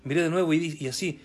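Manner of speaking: animated storytelling read, lively rise and fall; testimony read aloud. A narrator's reading. Preacher reads the prophet's testimony to the congregation, animated storytelling. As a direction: read out a dramatic sermon story.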